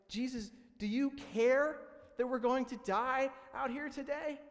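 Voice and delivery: frantic plea. Retold or imitated. Disciples waking Jesus in the storm, frantic high cry. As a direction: cry out to Jesus as if about to drown. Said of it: "they're like".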